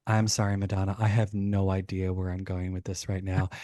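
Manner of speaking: plain, understated retold apology; lightly acted admission of a blank mind. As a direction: own up to being lost, mildly sheepish. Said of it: "my mind was completely blank".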